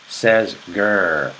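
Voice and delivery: a playful lion's growl. Shown as a demonstration. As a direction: growl it like a lion. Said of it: "like a lion growls".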